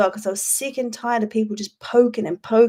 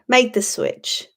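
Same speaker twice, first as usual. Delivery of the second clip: ad voiceover; slower than usual. Pretend. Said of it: "one of those internet ads".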